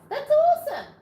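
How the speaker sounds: laughing, loud and high; delighted laugh. Real, not acted. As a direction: burst out with delight. Viewer watches her videos.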